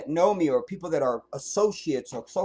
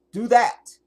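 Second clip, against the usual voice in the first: higher, louder push; emphatic command; 8 semitones higher, 10 dB louder than usual. Real, not acted. Urging viewers to stop calling people, emphatic. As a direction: drive the point home.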